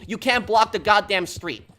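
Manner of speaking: loud, slow, angry yell at the driver; yelling angrily. Retold or imitated. Driver yells at her for blocking the street, angry. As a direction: snap it out like a furious driver. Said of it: "he just yelled at me".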